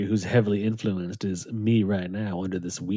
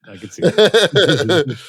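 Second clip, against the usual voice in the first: slow, higher, louder villain voice; Calendar Man voice; 5 semitones higher, 6 dB louder, slower than usual. Shown as a demonstration. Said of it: "that's how I would imagine Calendar Man would talk".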